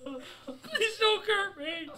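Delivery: terrified horror victim. Pretend. Pleading to monster, laughing.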